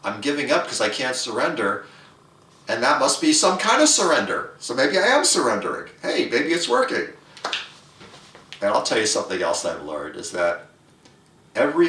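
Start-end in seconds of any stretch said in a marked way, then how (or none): 0.0-7.1 dawning realization. Retold or imitated. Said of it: "then finally I realized".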